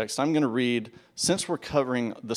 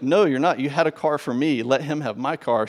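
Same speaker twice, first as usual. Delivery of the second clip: louder, emphatic retold protest; insistent objection; 4 semitones higher, 5 dB louder than usual. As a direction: argue back firmly with the clerk. Retold objection to rental agent.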